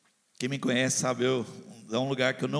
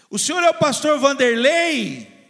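high, loud shouted question; shouting; 9 semitones higher, 10 dB louder than usual. Retold or imitated. Woman shouting to recognize the pastor in the supermarket, loud. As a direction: yell the question across the store. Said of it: "ela gritou assim".

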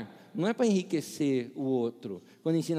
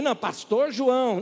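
insisting on title; 7 semitones higher, 5 dB louder than usual. Retold or imitated.

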